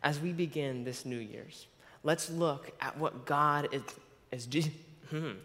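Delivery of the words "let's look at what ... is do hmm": stuck mid-sentence, halting on the word; real speech block; stuttering. Real, not acted. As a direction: get blocked on a word and break off with a hum. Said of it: "why I'm stuttering".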